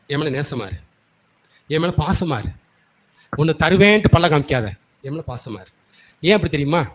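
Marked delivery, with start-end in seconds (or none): 0.1-5.7 tender plea as God. Acted. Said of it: "புதிய ஏற்பாடுல என்ன சொல்றேன்னா".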